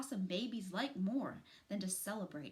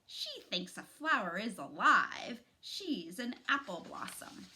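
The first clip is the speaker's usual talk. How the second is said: mocking sneer; 5 dB louder than usual. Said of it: "started to laugh, but not in a good way".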